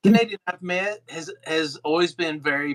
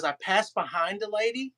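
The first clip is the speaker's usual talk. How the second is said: lightly imitated Irish accent, raised pitch; 4 semitones higher, 4 dB quieter than usual. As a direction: quote him in a light Irish lilt. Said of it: "Ken was in his Irish accent".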